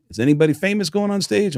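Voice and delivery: businessmen imitation. Businessmen asking, retold.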